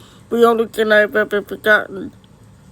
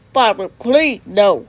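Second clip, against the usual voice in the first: pleading; 5 dB louder, slower than usual. Acted. Son begs father to stop.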